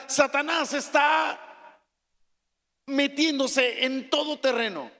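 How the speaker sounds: slow, drawn-out shout; thundering slow Satanás; preaching shout. Real, not acted. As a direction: hammer the name as a warning.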